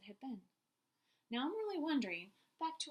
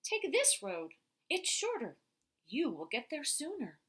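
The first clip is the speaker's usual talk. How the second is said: wolf voice; 3 semitones higher, 8 dB louder than usual. Acted. Teacher reads wolf's line.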